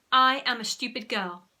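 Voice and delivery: loud, emphatic model line; commanding hypnotist's prompt; dictating. A narrator's reading. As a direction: say it boldly for a subject to parrot. Henry dictates line to repeat.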